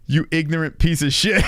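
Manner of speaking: cracking up mid-quote, mock outrage; laughing at the clip's insult; laughing while quoting. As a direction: repeat the insult through laughter. Repeating clip line while laughing.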